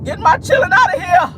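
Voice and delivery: high, hammed-up movie-character holler; Miss Sophia. Mother about to snap off, hammed-up high holler. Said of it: "Miss Sophia, I'm color purple".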